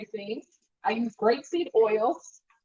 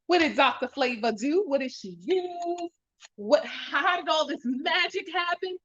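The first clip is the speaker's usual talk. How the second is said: excited hype; 5 semitones higher than usual. Acted. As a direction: build up the magic like a show host. Hyping her own cooking show.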